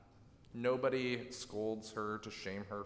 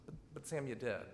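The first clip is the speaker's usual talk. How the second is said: gentle, empathic; 6 dB quieter, faster than usual. Retold or imitated. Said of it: "Gently, empathically, leaning in".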